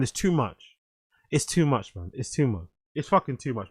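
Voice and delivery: fading mutter. Real, not acted. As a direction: repeat it, fading away quietly. Repeating, fading to near silence.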